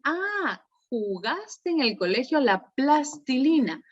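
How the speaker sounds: put-on bright high start, gently praising the child; encouraging echo. Shown as a demonstration. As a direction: reassure the child as you repeat his sentence. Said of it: "vamos a decir".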